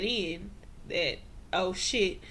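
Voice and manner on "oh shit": rising into a laugh, loud final okay; mock dismay laughing; laughing realization. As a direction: realize it and crack up. Voicing Fatima's realization.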